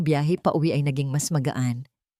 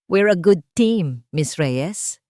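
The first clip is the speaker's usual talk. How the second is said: slow, louder line with a smile in it; slow, fond smiling remark; with a small smile; 4 dB louder, much slower than usual. Acted. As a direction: let a little smile through the words. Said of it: "isang maliit na ngiti ang sumilay".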